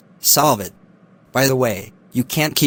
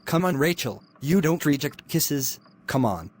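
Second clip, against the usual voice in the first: creepy hushed coaxing; 7 dB quieter than usual. Acted. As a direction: coax her in a hushed, creepy voice. Lecturer pressing the student.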